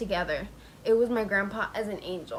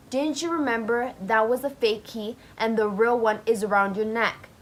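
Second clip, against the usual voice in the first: mildly raised scolding voice; retold mock scream; 5 dB louder than usual. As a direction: scold him, imitating a scream without yelling. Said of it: "came back and screamed at my grandpa".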